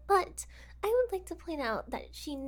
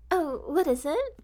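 muffled cry; 5 dB louder than usual. Acted. Captive's muffled cry from basement.

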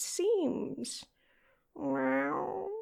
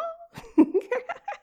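giggle; 14 semitones higher, 6 dB louder than usual. Acted. Giggles after mating idea.

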